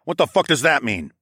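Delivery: demanding. A narrator's reading. Fighter questions companion about the word tribal, demanding. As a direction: demand an answer, loud and sharp. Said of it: "I demanded".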